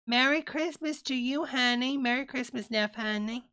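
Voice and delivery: high, bright holiday greeting; sing-song greeting. Real, not acted. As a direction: chirp it like a festive hello.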